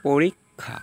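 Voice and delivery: slow পরীক্ষা as "porik-kha"; k-kh sound. Shown as a demonstration. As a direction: pause inside পরীক্ষা between k and kh. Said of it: "কক".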